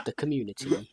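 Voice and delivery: pointedly enunciated "community", amused; mildly scornful emphasis on "community"; disdain. Real, not acted. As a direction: stress "community" as the operative word. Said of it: "you say it with such disdain".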